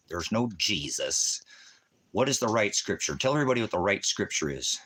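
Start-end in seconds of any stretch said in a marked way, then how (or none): 0.1-1.4 "There's no Jesus" said slowly, word by word; slow emphatic. Shown as a demonstration. Repeating to a commenter slowly and firmly. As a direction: spell it out slowly. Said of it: "we'll put it in here one more time".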